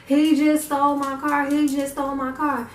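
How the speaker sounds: panicked cry. Retold or imitated. Telling her friend her car was stolen, panicked. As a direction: blurt it out in alarm. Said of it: "that's when I started panicking".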